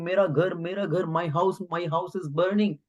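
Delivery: high, wailing cry of my house; distraught owner crying out at his burning house; acted wailing yell. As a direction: wail it like a man watching his home burn. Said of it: "He started yelling".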